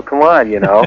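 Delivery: chuckling through the words; laughing. Real, not acted. Caller to the radio host about Mario, laughing. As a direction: laugh it off while scolding.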